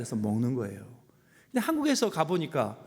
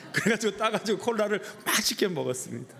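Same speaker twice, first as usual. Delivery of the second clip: higher, amused, through a laugh; laughing confession; 4 semitones higher than usual. Real, not acted. Pastor admitting he drank the dropped cola, laughing. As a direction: laugh as you own up to it.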